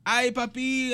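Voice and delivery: put-on high, playful New York Latino accent; imitated East New York accent. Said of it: "very East New York thing".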